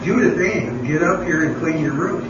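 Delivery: mild mock call with the full name. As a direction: use the full name, the mom is losing patience. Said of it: "Third time she said".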